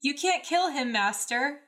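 high, loud desperate cry; desperate yell. A narrator's reading. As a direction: plead urgently to stop him. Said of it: "Anakin yelled desperately".

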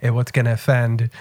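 lightly voiced French inspector; a hint of a French detective, low and slow; mock French snoop sniffing for clues; French accent. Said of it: "I don't know why he's French in my mind".

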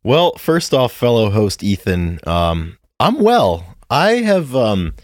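high, slow put-on grunge drawl. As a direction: lay on the grunge voice. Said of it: "it's so funny how you pick your spots to, to do that".

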